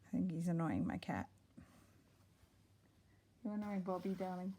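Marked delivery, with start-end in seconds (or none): 3.4-4.5 turning away from phone. Real, not acted. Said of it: "sorry, that was my son".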